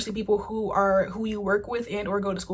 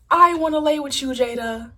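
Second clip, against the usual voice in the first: louder, higher, desperate cry; hammed-up lovesick reality-show shout; Red from Bad Girls Club; 5 semitones higher, 6 dB louder than usual. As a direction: belt the plea out higher and louder. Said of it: "that sound from Bad Girls Club".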